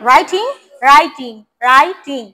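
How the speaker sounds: writing broken as rai-ting, loud and slow; clear t in writing. Shown as a demonstration. Teacher drills the word for a student, loud crisp t in writing. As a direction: hit the t in writing, syllable by syllable. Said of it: "টি আছে".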